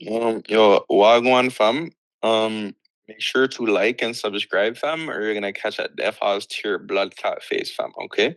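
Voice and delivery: put-on roadman slang in a London accent. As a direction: play a London roadman character. Peanut Butter Brother character intro.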